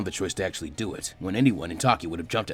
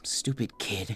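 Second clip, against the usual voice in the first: muttered; 7 dB quieter, much slower than usual. A narrator's reading. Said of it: "Fu muttered, without much malice".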